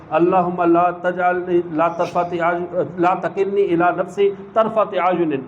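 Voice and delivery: slow, measured Arabic recital of the dua; slow prayer recitation. Shown as a demonstration. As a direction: recite each word slowly, like a prayer. (آہستہ ٹھہر ٹھہر کر دعا کی تلاوت)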